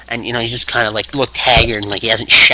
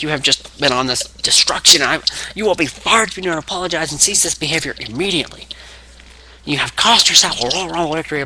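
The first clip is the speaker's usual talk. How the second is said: higher-pitched mock scolding; imitated boss ultimatum; 5 semitones higher than usual. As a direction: deliver a lightly acted stern ultimatum. Acting the boss's angry ultimatum.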